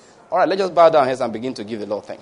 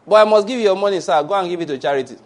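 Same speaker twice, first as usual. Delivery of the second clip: insistent debtor; 4 semitones higher, 4 dB louder, faster than usual. Acted. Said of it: "debtor insists".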